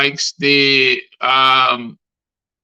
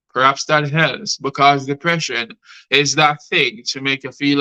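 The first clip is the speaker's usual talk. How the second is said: spoken-word poem. Acted. Poet advises therapy as the piece ends, spoken-word delivery. Recites poem Caught on Camera.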